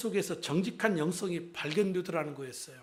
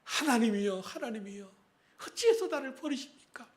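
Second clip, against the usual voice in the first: a cry rising high on 어찌해서; anguished cry to God, pitch climbing; lament; 4 semitones higher than usual. Retold or imitated. Pastor voicing Jesus's cry on the cross, anguished. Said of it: "이 탄식을 하시잖아요".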